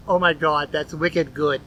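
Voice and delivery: put-on a light Boston accent on wicked good; playful Boston accent, barely put on; mock Boston accent, lightly done. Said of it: "My best Boston accent".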